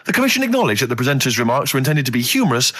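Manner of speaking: lightly done newsreader voice; a hint of a formal news bulletin; mock news read. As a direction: read it out like a newsreader, only half committed. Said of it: "Imagine this is the news and I'm reading it".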